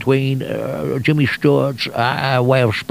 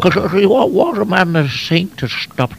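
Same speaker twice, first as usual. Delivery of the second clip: stammering, stop-start impersonation; a halting, stuttery film-star imitation; Jimmy Stewart; 3 semitones higher than usual. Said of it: "that becomes Jimmy Stewart".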